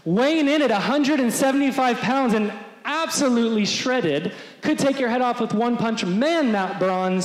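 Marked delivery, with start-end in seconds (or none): 0.1-5.8 announcer introducing a fighter to the crowd; ring announcer. Retold or imitated. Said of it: "Bruce Buffer is getting the crowd pumped up".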